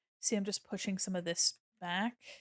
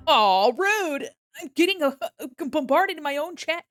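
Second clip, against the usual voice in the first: loud, higher playful protest; hammed-up loud complaint at chat; mock outrage; 4 semitones higher, 9 dB louder than usual. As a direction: cry out in fake indignation. Chat bombards her.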